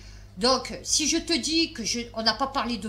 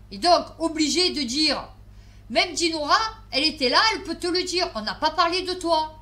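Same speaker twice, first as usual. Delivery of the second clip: louder, higher, pressing that nobody talked about her; retelling the protest to Anne, louder and exasperated; insistent retelling; 3 semitones higher, 4 dB louder than usual. Retold or imitated. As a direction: push it hard, exasperated. Insisting to Anne, rising tension.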